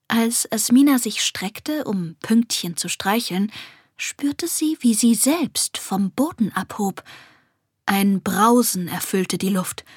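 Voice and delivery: plain reading voice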